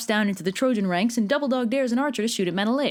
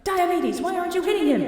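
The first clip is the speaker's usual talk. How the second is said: higher, pushy demand; impatient higher-pitched Athena; exasperated goddess; 9 semitones higher than usual. Acted. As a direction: needle him for slacking off. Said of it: "So Athena's like".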